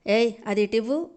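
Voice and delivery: snatch it with arrogance; insolently. Acted. Neeraja demanding the food from Mithuna, insolently. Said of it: "అని బలుపుగా పిలిచింది నీరజ".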